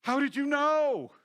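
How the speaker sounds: high, loud amazed question; surprised woman. Retold or imitated. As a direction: sound astonished. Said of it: "She said".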